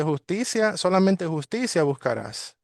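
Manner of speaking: "Justicia" lifted high, then "solamente justicia" stressed; emphatic reading. Shown as a demonstration. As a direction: read the verse leaning hard on "Justicia" and "solamente". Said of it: "enfatizando esta palabra". (con énfasis en "Justicia", alta y marcada)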